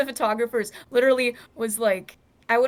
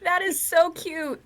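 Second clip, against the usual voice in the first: excited; 9 semitones higher, 5 dB louder than usual. Real, not acted. Sees her cute picture shown.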